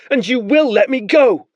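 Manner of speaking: stamp each word; defiant boy. Acted. Boy insists on his rank to the soldiers.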